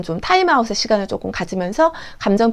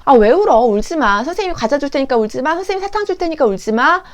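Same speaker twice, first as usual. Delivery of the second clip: lilting teacher voice, rising into each offer; mildly acted soothing, pitch lifting as you coax; coaxing a crying child; 4 semitones higher than usual. Teacher offering candy to stop a child crying, coaxing. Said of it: "울면 달래주고".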